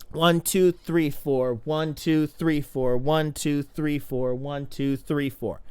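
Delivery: rhythmic one to four count; counting the kick in fours; four-beat count. Shown as a demonstration. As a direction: count the beat steadily, fading. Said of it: "Four beat kick is two kicks per arm pull".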